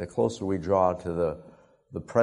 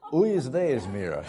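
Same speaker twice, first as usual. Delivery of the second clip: mock startled discovery; 4 semitones higher than usual. Boy sees spotted face in mirror.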